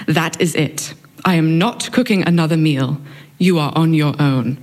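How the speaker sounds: a light stern British mum, laying down the law; clipped British mother putting her foot down, lightly done; stern British accent. Retold or imitated. Mother announcing at dinner she's done cooking, in a stern British accent. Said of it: "said in her stern British accent".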